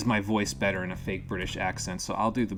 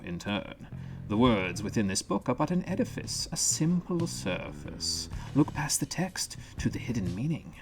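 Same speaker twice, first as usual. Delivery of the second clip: lightly voiced lore reader. Reads lore in character voice.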